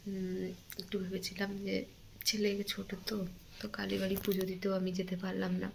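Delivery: hushed grief for an absent mother; hurting, subdued. Real, not acted. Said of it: "আর সেই কারণে প্রচণ্ড কষ্ট হচ্ছে". (চাপা গলায়, কষ্ট নিয়ে আস্তে বলা)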